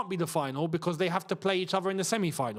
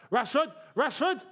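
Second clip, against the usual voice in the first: excited call; 7 semitones higher than usual. Real, not acted. Calling a chance live.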